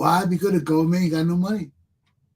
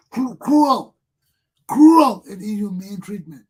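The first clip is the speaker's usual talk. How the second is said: breaking into a cry on cruel; near tears; 5 dB louder, slower than usual. Real, not acted. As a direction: voice cracking, close to crying. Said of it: "it make tears wanna come to my eyes".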